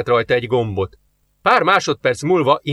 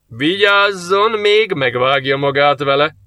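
laughing mockery; 3 semitones higher, 3 dB louder, slower than usual. A narrator's reading. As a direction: laugh at her tiny knife. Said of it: "röhögött fel Azaniel". (röhögve gúnyolódó)

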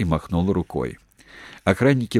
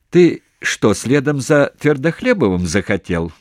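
sharp challenge; 6 semitones higher, 5 dB louder than usual. A narrator's reading. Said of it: "спросил Харченко".

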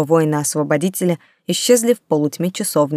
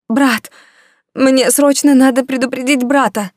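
high, loud theatrical wail; wailing ghost voice; 7 semitones higher, 5 dB louder than usual. Acted. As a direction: howl it like an old ghost. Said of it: "провыла она".

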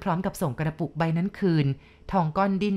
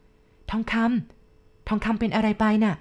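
slowed, slightly raised questioning voice; worried sister; 3 semitones higher, much slower than usual. A narrator's reading. Sister shakes her brother awake, worried call. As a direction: call his name with concern, drawn out. Sister rouses boy from nightmare.

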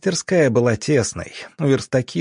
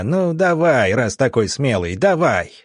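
growling taunt; 2 semitones higher than usual. Acted. Zavyalov dares the doctor to fight, growling taunt. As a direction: snarl the dare at him. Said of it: "рыча".

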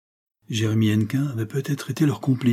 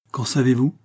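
slightly higher, quick challenge; brisk retort; 4 semitones higher, 3 dB louder than usual. Acted. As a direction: fire back at the moulder. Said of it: "répliqua vivement".

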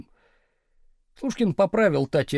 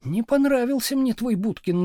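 higher, blunt declaration; blunt wife; 7 semitones higher than usual. A narrator's reading. Wife bluntly judging husband's friend, a bit higher. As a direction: say it straight to his face. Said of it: "напрямик заявила Надя".

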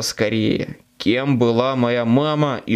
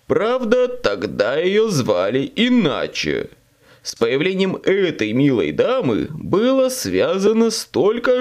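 devil; 3 semitones higher than usual. Acted. Demon speaks to Harry.

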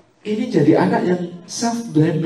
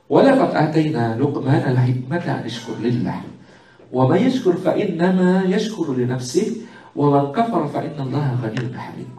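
measured chanted Arabic recitation; Quran recitation; 2 semitones lower than usual. Acted. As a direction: recite the verse devoutly.

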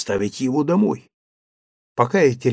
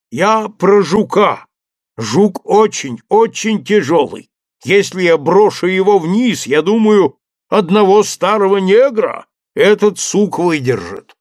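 a hint of the servant Jupiter, higher, calling down; lightly voiced servant up a tree; 3 semitones higher, 3 dB louder than usual. Servant Jupiter calling down to his master, lightly voiced. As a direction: play the cautious servant calling down. Jupiter explains about beetle.

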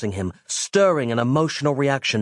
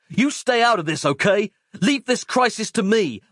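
much higher, cocky action-hero bluster; macho hero voice; 10 semitones higher than usual. Acted. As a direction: boast like a cartoon tough guy. Mike's bragging reply.

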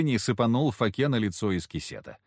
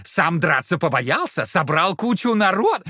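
taunting devil; 4 semitones higher than usual. Acted.

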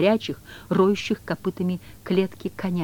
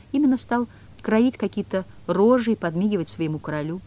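usual speaking voice

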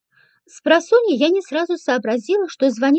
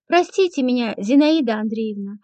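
whining; 4 semitones lower than usual. Acted. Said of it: "заныла она".

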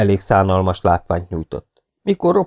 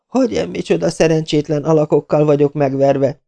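high, exasperated outburst; angry shout; 8 semitones higher than usual. Acted. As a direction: rail at the useless men. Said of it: "kiáltotta".

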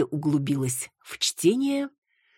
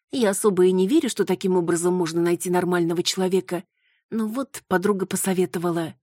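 put-on a lightly raised, flustered young voice; embarrassed young woman; 5 semitones higher than usual. Marusya making excuses to the older neighbour, flustered. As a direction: justify yourself, a little sheepish.

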